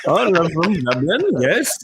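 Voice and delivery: giggling through a fake Irish accent; laughing mock Irish accent. Answering where he's from in fake Irish, laughing. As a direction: Dublin accent, barely held through laughter. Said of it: "That accent begs the question".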